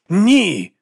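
high loud shout of refusal; loud high cry of refusal. A narrator's reading. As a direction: bark out a sharp no. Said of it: "вигукнув герцог Михаїл".

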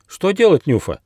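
high, loud worried question; alarmed. A narrator's reading. Squirrel cub alarmed by the cries, asking Nyufa. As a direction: ask in a sudden fluster. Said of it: "взволновался Бельчонок Рыж".

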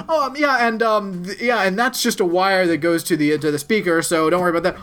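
imitated nervous cover-up; breezy cover-up. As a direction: play innocent, explaining it away. Covering up in front of family.

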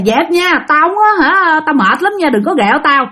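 mild mock scolding, starting high; retold cursing. Tired aunt warning unseen pranksters, mildly acted scolding. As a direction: imitate an irritated aunt telling them off. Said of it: "dì Năm cũng chửi sảng".

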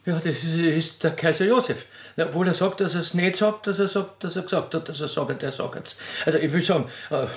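high, tangled babble of sagt; a bit flustered. Acted. Widow Gackermeier babbling about the emperor, flustered. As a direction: get hopelessly tangled in excitement. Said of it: "etwas aufgeregt".

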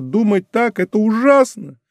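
put-on young woman crying out in horror; horrified cry. A narrator's reading. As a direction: cry out in dismay. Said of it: "вскричала лавальер".

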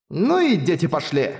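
mildly disgruntled inner remark; displeased thought. A narrator's reading. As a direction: grumble inwardly, with mild displeasure. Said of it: "недовольно подумала я".

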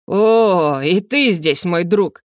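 насмешливо, с растянутым «О»; протяни приветствие с издёвкой; Арвендел. Acted. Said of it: "насмешливо протянул Арвендел". (насмешливо протянуть)

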